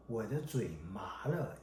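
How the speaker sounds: soft whispered phrase; whispering. Real, not acted. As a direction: whisper it under the breath. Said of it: "whispered example".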